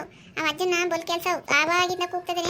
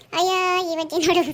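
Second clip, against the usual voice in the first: raised, louder cry of disbelief; loud exclamation; 4 semitones higher, 7 dB louder than usual. Acted. Villager reacting to old woman's misunderstanding, loud exclamation. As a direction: burst out over her silly mistake.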